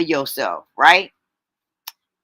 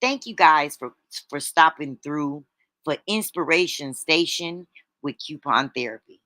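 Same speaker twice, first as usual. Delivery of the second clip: sweeter voice. Shown as a demonstration. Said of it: "I need to say that more sweeter".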